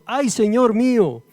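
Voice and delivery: high, loud cry of dismay. A narrator's reading. Man cries to Eliseo as the axe head sinks, crying out. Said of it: "Y gritó diciendo".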